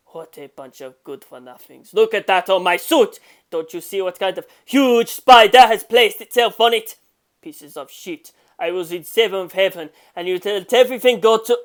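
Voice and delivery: scolding the two men; angry rant. Acted. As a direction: berate the useless men.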